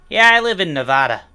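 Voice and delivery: Nevada said the local way, short flat a; quick, loud Nevadan saying Nevada; local Nevada accent. Retold or imitated. Imitating locals saying their state, Nevada flat a. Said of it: "They say".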